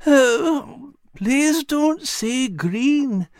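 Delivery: high, very slow, drawn-out moan. A narrator's reading. Al begs his friends not to mention green, moaning. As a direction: moan it queasily, high and long. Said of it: "Al moaned".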